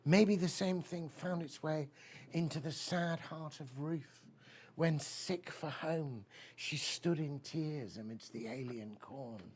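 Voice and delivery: slow, solemn poetry reading; poem recital. Acted. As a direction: let each line hang, very slowly. Recites Keats ode.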